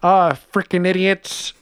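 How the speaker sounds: gruff character voice. Pretend. Improvised character bit.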